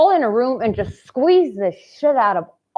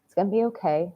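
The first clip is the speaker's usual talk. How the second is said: calm reassurance; 5 dB quieter than usual. Pretend. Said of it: "a calm yet crazy wild voice".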